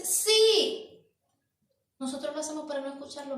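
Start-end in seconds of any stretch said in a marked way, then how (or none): 0.0-0.8 worn-down yes. Retold or imitated. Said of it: "Tú le dices".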